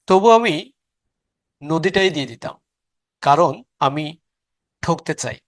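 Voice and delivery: measured recitation with pauses between phrases; poem recitation. Acted. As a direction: recite the verse line by line, letting each pause. Recites a poem before the lesson. (কবিতা আবৃত্তি)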